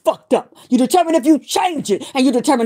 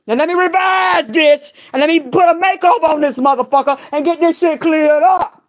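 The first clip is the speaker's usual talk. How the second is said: fired-up shout; 4 semitones higher than usual. Real, not acted. Shouting at her enemy.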